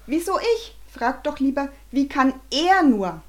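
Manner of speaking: high, loud indignant scolding, slowing at the end; angry scolding. Acted. Father shouts at his wife, high and loud. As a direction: shout back in outrage. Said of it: "Und Bernhard schimpfte".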